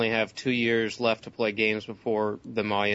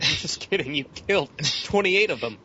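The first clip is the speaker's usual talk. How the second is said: mock gotcha; 5 semitones higher, 4 dB louder than usual. Mock voice takes back the surprise.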